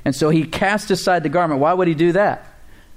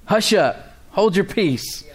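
hushing; 6 semitones higher, much slower than usual. Acted. Crowd shushing the beggar.

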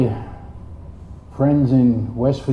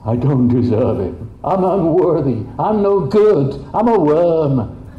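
mock self-pity; 2 semitones higher than usual. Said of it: "Religion loves that".

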